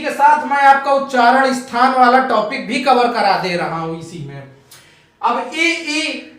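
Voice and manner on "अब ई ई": ई held very slowly and softly; drawn-out ee. Shown as a demonstration. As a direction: stretch ई to feel the palate. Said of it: "आप ई में देखिए तालु". (ई धीरे खींचकर)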